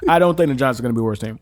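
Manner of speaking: eating while talking; words round a bite of chicken; mouth full. Real, not acted. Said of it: "I'm gonna be smacking real quick".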